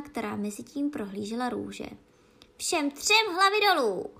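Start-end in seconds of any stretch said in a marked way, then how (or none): 2.6-4.1 high, loud furious yell; rozkaz k popravě. A narrator's reading. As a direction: yell it as a royal death sentence. Queen orders an execution. (vysoký, zuřivý křik)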